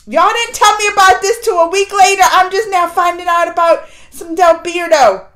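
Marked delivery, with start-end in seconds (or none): 0.1-3.9 mock complaint. Real, not acted. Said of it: "And y'all didn't tell me".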